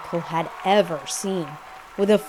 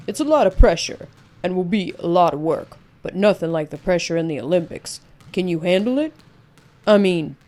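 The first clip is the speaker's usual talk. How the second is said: louder, firm coach's challenge; 5 dB louder than usual. Acted. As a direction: press the boy on his resolve. Coach questioning the boy.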